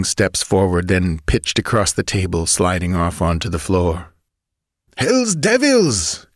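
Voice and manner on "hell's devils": slow, raised curse; cursing. Acted. Chief finds a dying man, slow raised curse. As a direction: spit out a furious slow oath. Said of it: "cursed the wolf".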